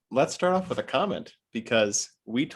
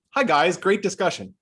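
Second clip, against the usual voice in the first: a hint of a Wisconsin Fox Valley accent, raised and bright; light Oshkosh accent; 9 semitones higher, 6 dB louder than usual. Reading a viewer's comment in a mild Oshkosh accent. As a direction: read the comment in a subtle local Wisconsin accent. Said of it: "not actually sure if you were doing an intentional accent".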